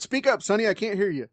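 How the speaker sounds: put-on repeating the deaf old man, high; crotchety grandpa who can't hear. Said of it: "I, I, I said".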